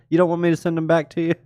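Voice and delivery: can't believe the gift; thrilled, rushing the words; surprised delight. Real, not acted.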